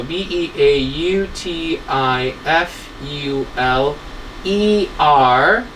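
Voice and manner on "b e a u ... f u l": slow spelling out. Shown as a demonstration. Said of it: "So when we say comparative".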